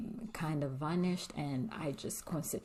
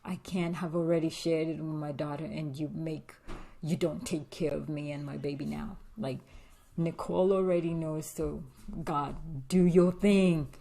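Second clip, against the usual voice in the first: pleading prayer; 3 dB louder than usual. Retold or imitated. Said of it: "I told God".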